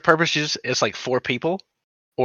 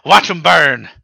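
unhinged villain; 3 semitones higher, 5 dB louder, slower than usual. Acted. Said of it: "let out a maniacal laugh".

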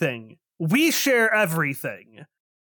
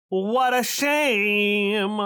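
mock sorrow; 3 semitones higher, much slower than usual. GM plays dramatic character.

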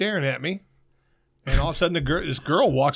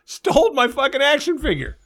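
angry outburst; 9 semitones higher than usual. Real, not acted. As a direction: vent it, voice way up. Angry rant about stolen figure.

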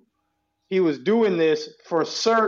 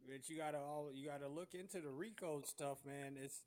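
ordinary talk, nothing marked

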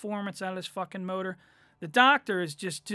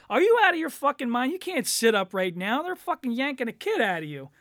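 mock outrage; 4 semitones higher, 4 dB louder, faster than usual. Acted quarrel, refusing wife.

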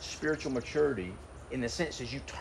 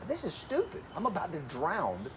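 mock panic; 3 semitones higher, 6 dB quieter than usual. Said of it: "The next thing you think is".

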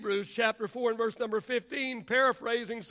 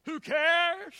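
higher, ringing rhetorical question; emphatic question; 6 semitones higher, 5 dB louder than usual. Acted. Preacher asks the congregation a second time, forcefully. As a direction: call it out to the congregation.

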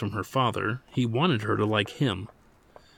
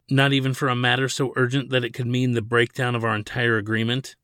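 blustering; 3 dB louder than usual. Acted. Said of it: "Ladin blustered".

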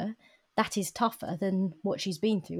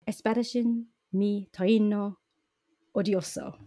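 spell-like Spanish; 3 dB louder than usual. Acted. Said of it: "make that sound like a, uh, Harry Potter spell".

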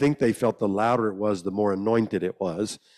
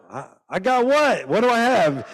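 put-on bewildered boy; 12 semitones higher, 5 dB louder than usual.

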